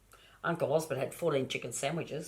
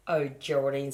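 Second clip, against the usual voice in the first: exasperated whisper. Acted. Mother sighing at child.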